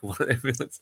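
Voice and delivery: reading through real laughter; laughing. Real, not acted. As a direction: narration breaking into giggles. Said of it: "I'm sorry, I'm laughing".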